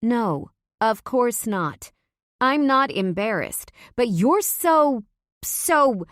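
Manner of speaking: loud, high, flustered denial; stumbling, heated protest. A narrator's reading. Talia flustered and angry.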